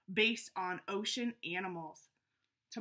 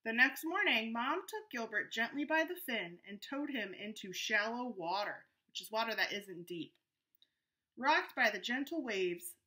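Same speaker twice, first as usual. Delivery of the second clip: story narration. A narrator's reading. Reads the story aloud.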